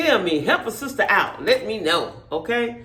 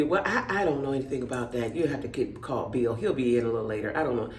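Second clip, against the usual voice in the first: helpless lady voice; 7 semitones lower, 6 dB quieter than usual. Retold or imitated. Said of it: "And she would be".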